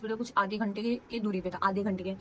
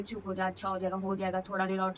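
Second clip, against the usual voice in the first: retold reassurance; 2 semitones lower than usual. Sister consoles her crying sibling in labour, retold reassuringly. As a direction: coax gently, as if retelling a comforter's words. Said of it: "मेरे को समझा रही थी".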